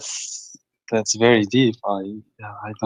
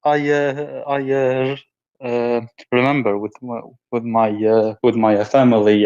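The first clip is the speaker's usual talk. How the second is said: crying. Real, not acted. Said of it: "but you are crying".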